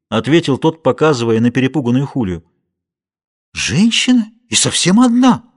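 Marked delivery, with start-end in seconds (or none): 3.5-5.4 high surprised exclamation, louder; exclaiming. A narrator's reading. Paulita surprised at finding a woman alone, exclaiming. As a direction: gasp out the surprise at a lone woman. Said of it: "воскликнула Паулита".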